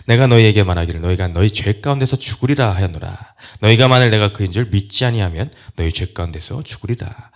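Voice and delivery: loud, firm scripture declaration; emphatic warning. Retold or imitated. Preacher voicing Jesus' warning to unbelievers, loud and emphatic. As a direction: drive the warning home with force. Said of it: "반복적으로 강조하여 확실하게 못 박아서".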